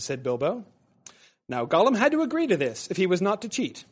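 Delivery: story narration from the book to a class; reading aloud. Acted. Teacher reading the first edition to class, storyteller voice. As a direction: read the passage like a storyteller.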